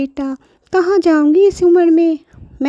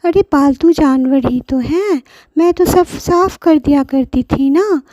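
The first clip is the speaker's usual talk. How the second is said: put-on higher, sobbing hums of an old woman; grandmother crying; 8 semitones higher, 3 dB louder than usual. Abandoned grandmother weeps in the hut, acted sobbing. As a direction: sob it out in acted grief. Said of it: "दादी बहुत रोने लगी".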